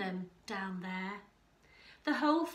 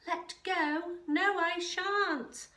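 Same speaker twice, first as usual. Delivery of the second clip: high, loud, panicky protest; scared refusal; 6 semitones higher, 4 dB louder, slower than usual. A narrator's reading. Scared Kevin refusing to let go, panicky. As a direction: refuse in mounting fright. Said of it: "But Kevin was scared".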